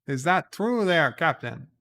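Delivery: hammed-up querying reply over the comm; starship crew. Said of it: "And they're like".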